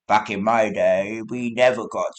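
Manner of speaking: put-on creaky old-timer grumble; lightly voiced old man. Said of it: "old man voice".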